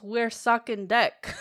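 laughing attempt at a German accent; a giggly try at a German accent. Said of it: "Do your best impersonation with your best German accent".

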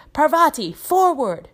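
loud, high shouted command; Professor Lupin. A narrator's reading. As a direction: shout it as an order to a pupil. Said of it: "Professor Lupin shouted".

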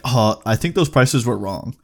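lightly voiced clueless clerk; quoting the clerk. Cashier brushing off the customer, mild offhand clerk voice. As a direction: toss it off like the unbothered cashier. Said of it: "he had the fucking audacity to be like".

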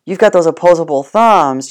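a loud drawn-out "Whoa" from the dog, then lightly voiced; the dog suddenly impressed by you. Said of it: "They're gonna go like".

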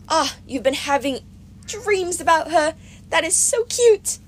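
high, slow cooing goddess; Aphrodite. A narrator's reading.

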